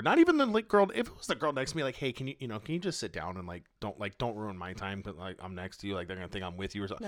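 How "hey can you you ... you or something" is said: much softer, hushed plea, last line rushed; embarrassed plea. Retold or imitated. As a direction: murmur it like you're mortified. Imitating the mortified girl's plea.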